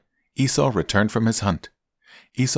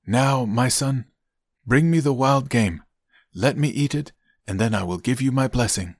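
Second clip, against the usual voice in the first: a hint of an expectant father; lightly voiced Isaac; 5 semitones higher than usual. Isaac asks his son for the meal, lightly voiced father.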